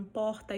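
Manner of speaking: PORTA with one Brazilian regional R. Shown as a demonstration. Teacher illustrating Brazilian variation, regional R in porta. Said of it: "tem pessoas que falam".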